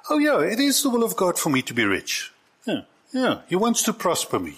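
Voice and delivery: high-pitched, eager agreement, acted out; persuaded believer. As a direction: play someone happily talked into it.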